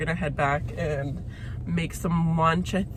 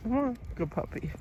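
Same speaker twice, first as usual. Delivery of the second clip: soft, higher-pitched pet talk; coaxing a puppy; 6 semitones higher, 7 dB quieter than usual. Real, not acted. Owner to puppy near a horse, softly coaxing. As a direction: gently encourage the dog along. Talking to the dog.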